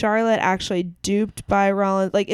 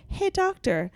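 mock girlfriend voice; 3 semitones higher than usual. Wife voiced asking doctor lover.

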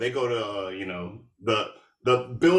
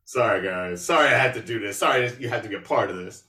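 low, listless retold apology at the start; lethargic mock apology; 4 semitones lower than usual. Katie apologizing to the guys at hate camp, mock lethargic. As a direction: imitate a half-hearted, lethargic sorry. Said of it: "like, lethargically".

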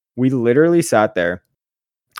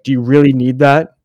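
louder mock-concerned needling; pretend heckle; 2 semitones higher, 5 dB louder than usual. Heckler to huskier pitcher with snacks, pretend loud needling. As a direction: call it out to tease the player.

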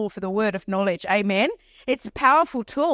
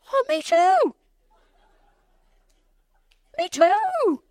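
very high, drawn-out squeal of joy; hammed-up delight; overjoyed agreement; much slower than usual. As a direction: gush it high like an excited fan. Acts overjoyed reply to strangers.

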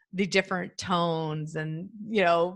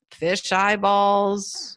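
son pondering aloud; 4 dB louder, much slower than usual. Retold or imitated. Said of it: "He's like".

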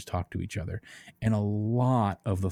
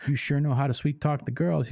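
higher, mock flirty computer; computer character; 6 semitones higher than usual. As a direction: play a coy computer, pitched up. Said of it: "and the computer's like".

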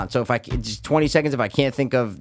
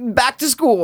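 excited blurt; 8 semitones higher, slower than usual. Real, not acted. Blurting out a random guess.

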